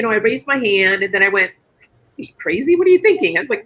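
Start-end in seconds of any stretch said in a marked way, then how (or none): 1.5-3.4 mock alarmed self-talk. Arguing with herself after raising hand.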